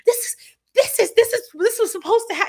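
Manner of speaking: high, loud and excited; hyped-up driver. Retold or imitated. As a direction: gush like a hyped fan.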